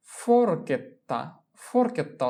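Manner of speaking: ফোরকেত্তা said slowly with the double t held; slow ফোরকেত্তা down for the class; slow model pronunciation. Shown as a demonstration. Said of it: "teacher models pronunciation".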